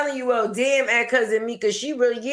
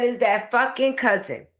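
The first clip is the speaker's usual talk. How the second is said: mock quote. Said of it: "She said".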